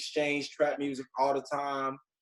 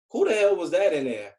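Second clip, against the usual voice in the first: baffled, higher-pitched demand; incredulous friend; 4 semitones higher, 4 dB louder than usual. Retold or imitated. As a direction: confront him in mock disbelief. Friend confronts him after the meeting.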